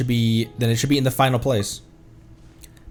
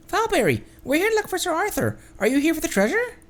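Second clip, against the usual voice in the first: put-on much higher, bright young lady voice; Navia's voice. Streamer voicing Navia greeting a man, high and eager. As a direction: chirp it as an eager heroine.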